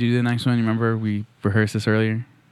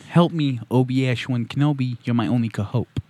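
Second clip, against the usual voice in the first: lightly voiced actor impression; a hint of impression, slightly raised then settling; Alan Alda; 3 semitones higher than usual. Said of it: "That was my Alan Alda impression".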